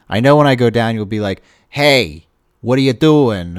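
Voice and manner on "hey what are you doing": loud, badly faked Boston accent. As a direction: call out in a hammy, unconvincing Boston accent. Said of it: "not even a very good Boston accent".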